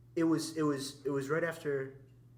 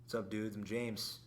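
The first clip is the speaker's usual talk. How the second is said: James; 3 semitones lower, 5 dB quieter than usual. Retold or imitated. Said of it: "I'll do impression of James".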